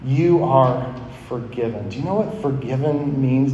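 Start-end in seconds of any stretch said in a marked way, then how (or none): 0.0-1.9 tender reassurance. Retold or imitated. Jesus speaking to the sinner on the cross, softly reassuring. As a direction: quietly reassure someone who expects punishment. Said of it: "and he says".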